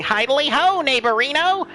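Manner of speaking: lightly voiced, high sing-song hello; cheery catchphrase greeting. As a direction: toss it out as a playful high-pitched catchphrase. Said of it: "coming up to Ned anytime soon and saying".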